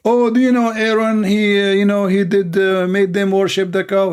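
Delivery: mock objector. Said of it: "They say".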